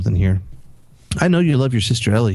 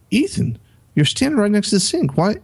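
exasperated scolding; 11 semitones higher than usual. Retold or imitated. Father scolding son at dinner.

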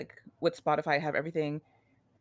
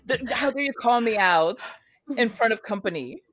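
hammed-up offended, louder and higher; mock outrage; 3 semitones higher, 5 dB louder than usual. Teasing her friend for calling her out, mock outrage. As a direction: play scandalized for laughs.

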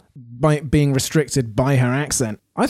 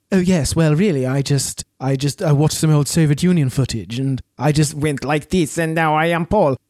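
lightly put-on Eastern European accent; mock a Polish actress's accent. Actress explaining herself in an interview, mock Eastern European accent. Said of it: "do a Eastern European accent".

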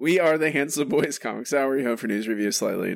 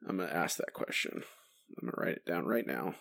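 whispering; 5 semitones lower, 10 dB quieter than usual. Real, not acted. Muttering a note to himself.

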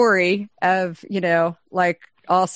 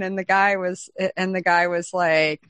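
usual speaking voice

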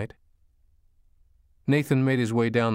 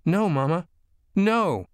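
put-on high, louder child's cry of refusal; imploring little boy; 9 semitones higher, 5 dB louder, slower than usual. A narrator's reading. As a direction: plead desperately with your mother. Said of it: "the little boy implored".

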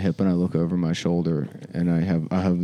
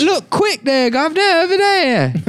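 very high, louder cockney robot urchin; urgent little robot thief, pitched way up; British child robot; 13 semitones higher, 4 dB louder than usual. Acted. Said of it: "like a British child robot".

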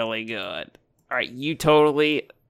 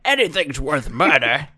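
bar creatures; 2 semitones higher, 5 dB louder than usual. Acted. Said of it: "some creatures in the bar say".

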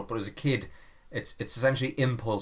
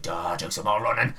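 dopey inner voice; 3 semitones lower than usual. Retold or imitated. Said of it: "he's like".

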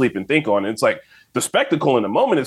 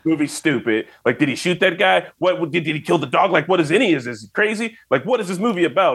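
higher-pitched, rambling confused complaint; mock bafflement; 7 semitones higher than usual. Imitating a friend baffled by American Psycho, mock bewildered rant. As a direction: pile up the questions like someone totally lost.

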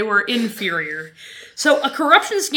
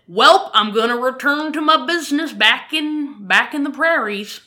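lightly put-on 1940s Albertan accent; folksy imitation of a prairie Albertan accent; a hint of old Albertan accent; old-time Albertan accent. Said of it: "In that exact accent. That is a nineteen forty-one Albertan accent".

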